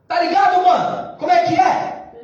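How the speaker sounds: casual street slang voice, like talking to a buddy; slangy street talk. Shown as a demonstration. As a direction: talk to God like a mate from the block. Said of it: "Chega assim". (fala de mano, bem gíria)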